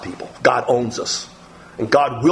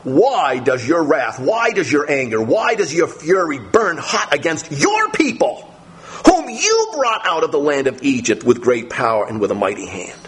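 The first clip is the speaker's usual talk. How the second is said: pleading. Acted. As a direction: plead with God, close to tears. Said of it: "Then Moses pleaded".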